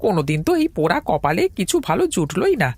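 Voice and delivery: fed-up muttered complaint climbing in pitch; exasperated grumbling. Acted. Tea seller cursing his rotten luck, increasingly exasperated.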